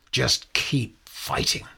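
slow breathy whisper. Retold or imitated. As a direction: hush it out slowly. Quoting wife's resolve.

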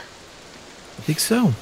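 whispered, slow and high. Acted. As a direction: whisper the agreement. Quiet aside to party.

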